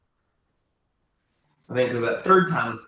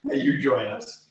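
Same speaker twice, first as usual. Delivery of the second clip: formal request voice; 4 dB louder than usual. Acted. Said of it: "I say".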